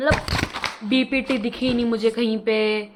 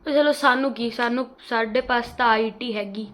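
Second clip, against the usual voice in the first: playful, slightly hammed Punjabi accent in Hindi; a quick bad attempt at Punjabi accent Hindi. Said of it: "मेरी Punjabi accent बहुत बेकार है".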